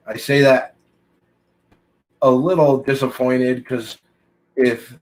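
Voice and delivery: talking with a pen in mouth; words around a pen held in teeth. Real, not acted. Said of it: "I got a pen in my mouth".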